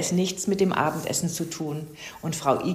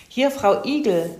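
friendly phone greeting, pitched higher; 4 semitones higher, 4 dB louder than usual. A narrator's reading. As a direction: answer the phone in a friendly lift. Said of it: "meldete sich die Igelin freundlich". (freundlich, mit höherer Stimme)

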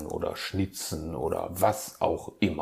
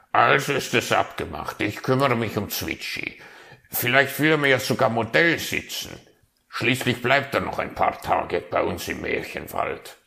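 cheerful raven; 4 semitones higher, 5 dB louder, faster than usual. Acted.

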